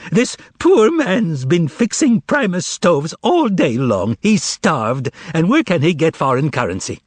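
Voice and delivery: milk their pity; quavering plea. Acted. Korovyov pleading for Behemoth with a quaver. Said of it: "added a quaver to his voice".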